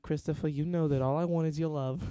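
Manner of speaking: lightly imitated Italian-American grandmother; stereotypical Italian accent. Grandson imitates his nana's reply, stereotypical Italian accent. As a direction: put on an Italian accent sliding into New York. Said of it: "that's just my stereotypical Italian accent".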